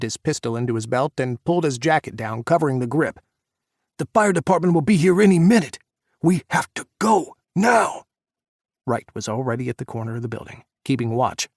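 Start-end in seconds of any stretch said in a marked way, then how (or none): 4.0-8.1 loud, high urgent call. A narrator's reading. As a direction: push them to leave fast. Urging escape before police.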